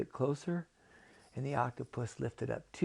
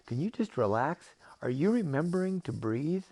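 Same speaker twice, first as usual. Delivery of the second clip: louder, rising pointed questions; exasperated octopus; 5 semitones higher, 5 dB louder than usual. Acted. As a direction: push the questions up with impatience. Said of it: "octopus says".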